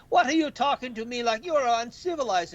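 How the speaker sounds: high, lightly mocking taunt; haughty taunt. Wrestler scolding the kid, mock haughty. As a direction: look down your nose at him. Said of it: "He's like".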